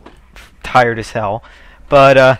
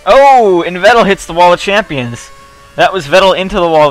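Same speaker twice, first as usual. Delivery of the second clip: surprised; 5 semitones higher, 7 dB louder than usual. Real, not acted. Rival crashes during live commentary.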